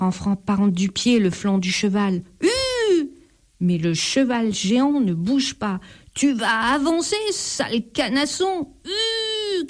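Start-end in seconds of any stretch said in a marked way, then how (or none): 2.4-3.1 a high sharp giddyup; urging shout. A narrator's reading. The thief urges the giant horse forward, a high sharp giddyup. 6.1-9.7 high, annoyed, scolding the horse; angry urging. A narrator's reading. The thief scolds the stubborn horse that won't move, annoyed. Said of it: "crie le voleur".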